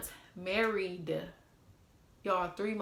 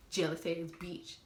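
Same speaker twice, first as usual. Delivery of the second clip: slow, quieter jab; slow retold insult; 4 semitones lower, 7 dB quieter than usual. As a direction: drag the insult out softly. Same insult repeated three ways.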